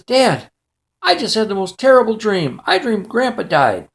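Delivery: a hint of a child reporting a nightmare; upset young son. Frightened boy tells dad his nightmare.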